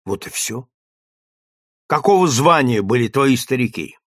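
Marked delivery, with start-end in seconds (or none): 0.1-0.7 soft resigned close. Acted. Woman ends answer softly.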